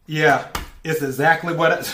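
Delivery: words breaking into laughter; can't hold back the giggles; laughing. Real, not acted. Reader cracking up at the cards, laughing through words. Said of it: "I'm cracking up".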